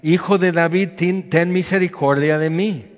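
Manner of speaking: retold shout, pitched a little up; calling out. Blind beggar shouting over the crowd to Jesus, calling out. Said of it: "grita y grita".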